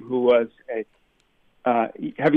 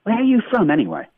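much higher, mock-British challenge; imitating a puzzled English local; imitated English questioner; 8 semitones higher, 3 dB louder than usual. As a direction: put on a British accent, pitched way up. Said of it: "if I tried to give a regional accent, they go".

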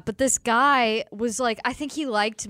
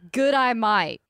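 "Good, I might" run together as an Australian "g'day mate"; Australian accent; slower than usual. Shown as a demonstration. Co-host performs the meme on request, Australian accent. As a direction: put on a playful Australian accent. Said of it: "You have a good Australian accent".

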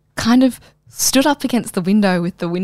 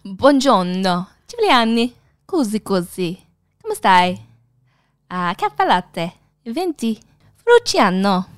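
put-on drunk Italian phrases. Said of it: "Tell me what you know".

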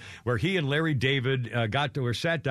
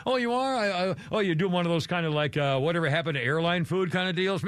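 mocking feigned surprise, pitched up at first; George making fun; 2 semitones higher than usual. George teases Jerry about being a comedian, making fun of him. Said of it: "You know, making fun of him".

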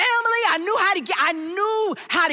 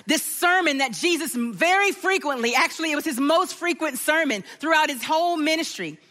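sermon preaching. Acted. Pastor teaching the congregation about forgiving debt, earnest. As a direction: draw the congregation in.

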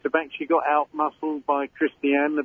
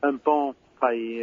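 basic French in a Cockney accent; real Cockney accent on French words; slower than usual. Real, not acted. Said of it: "French with a Cockney accent".

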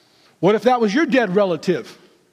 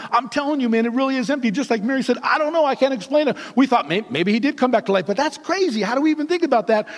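talking a mile a minute; 3 semitones higher, faster than usual. Retold or imitated. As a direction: imitate flustered men tumbling over their questions. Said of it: "talking a mile a minute".

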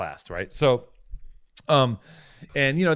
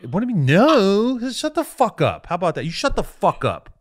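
high, heated telling-off; angry outburst; 5 semitones higher than usual. Real, not acted. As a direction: blow up and shut the friend down. Furious retort to friend's no.

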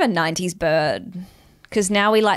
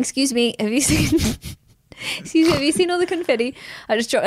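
put-on excited kid rambling; 5 semitones higher, faster than usual. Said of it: "and then walk around saying".

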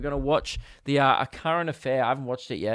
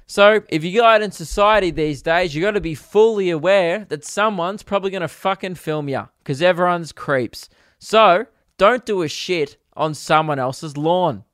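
blunt newsreader; 3 semitones higher, 4 dB louder than usual. Pretend. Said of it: "if I was Tracy, I'd be like".

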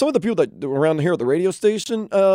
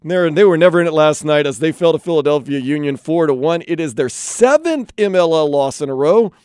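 radio sports update delivery; sports headline read. Real, not acted. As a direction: read out the scores like a radio host.

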